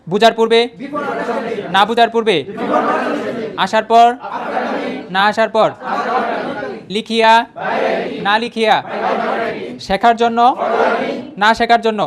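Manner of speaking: bright classroom chant for students to echo; teacher call-and-repeat. Shown as a demonstration. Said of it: "আমার সাথে একটা পড়লেই".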